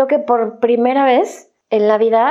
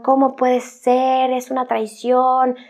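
parents scolding; 3 semitones higher than usual. Retold or imitated. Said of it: "mis papás me atacaban".

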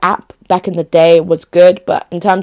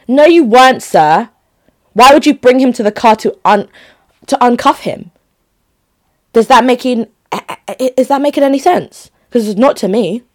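indignant retort; 4 semitones higher than usual. Real, not acted. Rebutting the cop's excuse.

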